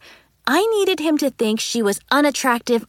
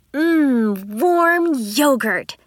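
savoring; 2 semitones higher, much slower than usual. A narrator's reading. Savoring the yogurt.

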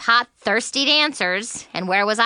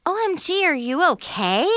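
frantic; 7 semitones higher than usual. A narrator's reading. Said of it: "Zoe asked frantically".

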